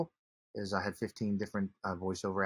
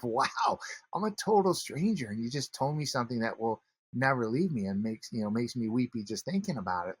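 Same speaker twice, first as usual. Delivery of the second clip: moved wonder; 4 semitones higher, 3 dB louder than usual. Retold or imitated. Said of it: "and I'm like".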